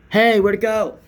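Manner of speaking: squeaky mock amazement; imitating the filmer. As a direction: mimic his fake amazement. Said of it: "That's what he did".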